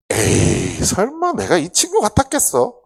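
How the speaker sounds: loud, high-pitched dismissive scoff; acted self-assured denial, voice jumping up; scoffing disbelief. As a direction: brush off the idea, incredulous. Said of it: "라고 생각을 하며".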